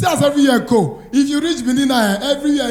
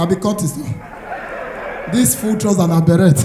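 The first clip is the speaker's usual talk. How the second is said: normal talking voice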